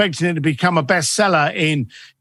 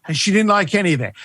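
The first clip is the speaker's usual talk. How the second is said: normal talking voice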